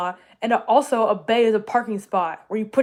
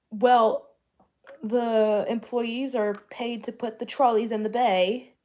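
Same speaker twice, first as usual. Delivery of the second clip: imitating angry Brit; 3 semitones higher, slower than usual. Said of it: "She was talking about".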